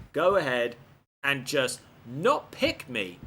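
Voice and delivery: slow, emphatic outrage, word by word; indignant rant. Real, not acted. Player ranting that Flair robbed him of his title shot, indignant. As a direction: spell out the grievance in heavy, separated phrases. Player rants at being betrayed.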